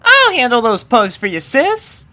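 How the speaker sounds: high, bright little filly offering help; chirpy farm girl eager to pitch in; eager Apple Bloom voice. A narrator's reading. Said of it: "volunteered Apple Bloom".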